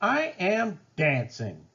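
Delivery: high, thrilled exclaiming; joyful cry. A narrator's reading. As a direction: burst out with delight at finally dancing. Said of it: "Gerald cried".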